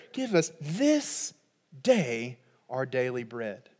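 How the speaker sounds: hushed prayer asking God for bread; quiet, slow prayer. Pretend. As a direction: pray it softly and slowly.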